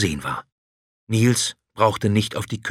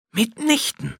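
high, odd dragon voice contradicting. A narrator's reading. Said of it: "widersprach der Drache". (Drache, widersprechend)

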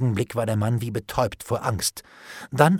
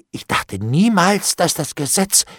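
drawn-out, high, worried protest; dismayed; 7 semitones higher, 5 dB louder than usual. A narrator's reading. Bailiff realises the law applies, dismayed. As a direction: stretch it out in rising alarm.

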